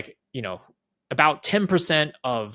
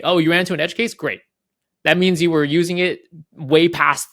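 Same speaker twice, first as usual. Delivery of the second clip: higher and louder, playfully cheering an edge case; mock delight; 6 semitones higher, 7 dB louder than usual. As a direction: feign excitement that they broke it. Mock cheerful reply to user.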